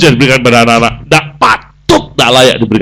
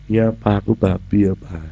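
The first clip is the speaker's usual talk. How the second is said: meek agreement; 4 semitones lower, 8 dB quieter than usual. Acted.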